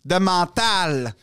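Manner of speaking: slow, drawn-out acted declaration; mock-grand locker-room line; emphatic quote. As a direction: proclaim it slowly, leaning on each key word. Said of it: "quand il a dit ça".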